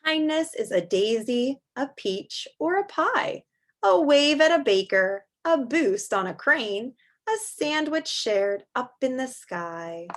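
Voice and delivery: lilting, rhythmic storybook reading; reading aloud to children. Acted. Teacher reading a picture book to kids, lilting. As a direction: read the rhyme to the class.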